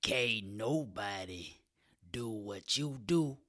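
slow, seductive crooning; sexy voice. Shown as a demonstration. Comic croons a seductive line to listeners. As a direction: croon it slowly like a smooth lover. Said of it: "sexy, seductive voice right there".

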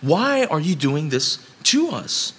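a hint of aggrieved outrage; mock bewildered complaint. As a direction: voice the grumbling workers' disbelief. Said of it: "they basically say".

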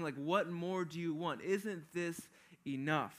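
lightly voiced Pilate begging the leaders to stop; Pilate pleading with the crowd. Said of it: "a better way to convey that message of what Pilate is trying to say".

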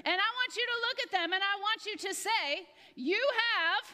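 high, loud preacher build-up; rising revival-preacher call; preaching voice. Shown as a demonstration. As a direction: fire it up like a preacher. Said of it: "find your best preaching voice right now".

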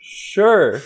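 high, loud mock shouted reply; shouting back. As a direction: call it back up to partners. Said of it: "you're gonna shout back".

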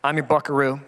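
touched, halting lyric reading; getting emotional. Real, not acted. Father reads the son's closing words to congregation, getting emotional. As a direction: let each phrase settle, pausing between them. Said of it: "I may get emotional".

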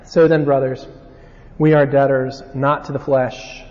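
measured Bible reading; scripture reading. Acted. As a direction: read the verses with weight. Reads scripture passage aloud.

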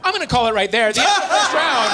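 loud, high host call; big show host announcement; game show announcer. Acted. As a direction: boom it out like a quiz host. Host announces round end.

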